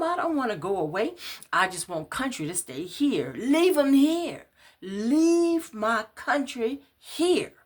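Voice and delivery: high, loud, slow wailing plea; frantic pleading. Acted. Woman begging the police to leave her man. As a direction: beg them, voice stretched and high.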